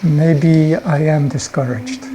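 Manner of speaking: slow, wavering admission; hesitant doubt. Acted. Person answering the imp's second whisper, hesitant. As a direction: mull it over, half persuaded. Person starts to believe the imp.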